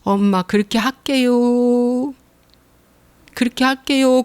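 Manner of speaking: put-on slow, willing reply of a good child; obedient child. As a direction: answer mom meekly and slowly. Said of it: "뭐라고 말해야 될 것 같아요".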